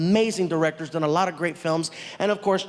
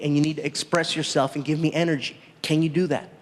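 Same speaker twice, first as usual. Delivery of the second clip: lightly lower, a hint of a serious director; calm instructing tone; 5 semitones lower than usual. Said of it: "The director comes up to me and he says".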